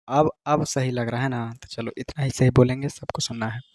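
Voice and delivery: ठीक से धीमे बोलना, गूंज कम करने के लिए. Real, not acted. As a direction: echo se bachne ko dheere bolo. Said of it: "हम इतना तेज बोल रहे हैं". (धीमी आवाज़ में)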